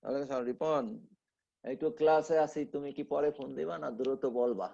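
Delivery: hushed, quick phone answer; whispering on the phone. Real, not acted. Teacher takes phone call mid-class.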